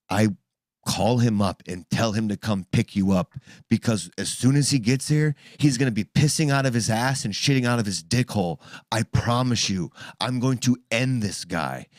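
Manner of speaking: retold forceful, protective threat; protective aggression. Parent warning daughter about the predator, retold protective aggression. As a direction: promise harm to whoever threatens them. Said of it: "on your side aggression".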